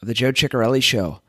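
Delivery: podcast intro in a put-on Scottish accent; host greets listeners in a Scottish accent. Host welcomes podcast listeners, playful put-on Scottish accent. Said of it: "as you can tell, I've been stepping my game up on my Scottish accent".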